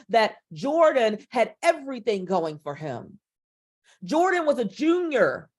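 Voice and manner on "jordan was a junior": higher, upbeat and proud; energetic. Shown as a demonstration. Coach telling the audience about her nephew's achievements, higher and energetic. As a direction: lift the energy, celebrate his life. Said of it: "Do you see the shift in energy".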